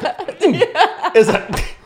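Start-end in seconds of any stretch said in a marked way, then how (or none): 0.0-0.6 high stifled sneeze noise; held-in sneeze. Shown as a demonstration. Showing cohost how they hold a sneeze in, stifled squeak. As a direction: demonstrate a sneeze trapped inside, high-pitched "mm". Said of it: "then I have this internal sneeze".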